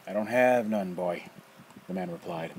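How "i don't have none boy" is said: put-on loud, rough old man snapping a question; gruff challenge. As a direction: call the kid out, sharp and loud. Nefer's rough voice.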